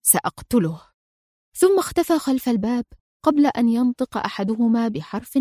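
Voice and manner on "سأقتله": low, flat and final; firm and stern. A narrator's reading. Adham telling his friends he will kill, grim and firm. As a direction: state the kill as cold fact. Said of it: "في حزم وصرامة".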